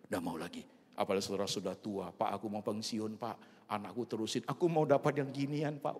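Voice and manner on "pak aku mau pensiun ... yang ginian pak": eager plea. Acted. Acted worker pleading to quit job.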